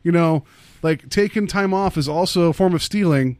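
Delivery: upbeat corporate announcement; office manager voice. Retold or imitated. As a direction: lecture staff like a boss. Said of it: "it just felt like".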